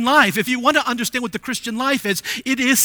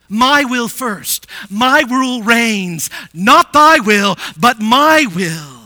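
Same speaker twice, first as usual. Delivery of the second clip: slow, forceful declaration, building louder; commanding Jesus quote; 6 dB louder, slower than usual. Retold or imitated. Preacher voices Jesus claiming first place, commanding. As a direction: proclaim it slowly, leaning hard on each phrase. Voicing Jesus asserting his rule.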